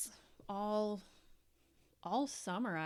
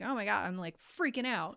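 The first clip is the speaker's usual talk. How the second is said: raised, louder mock panic; mock freak-out; 3 semitones higher, 6 dB louder than usual. Venting to a friend, hammed-up freaking out. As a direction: play up being overwhelmed.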